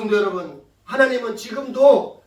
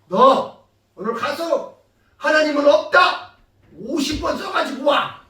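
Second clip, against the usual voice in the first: slow, higher, lightly acted order; stern order; 4 semitones higher, 5 dB louder, slower than usual. Teacher giving a child homework, lightly acted stern order.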